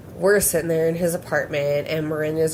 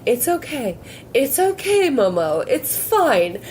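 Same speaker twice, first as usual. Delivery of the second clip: laughing through quote; 8 semitones higher than usual. Retold or imitated. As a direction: giggle out the comforting words. Quoting sister while laughing.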